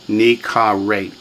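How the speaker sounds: "nikaret" slowly, each vowel full; slow teaching model of "nikaret"; three full syllables. Shown as a demonstration. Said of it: "Three full syllables".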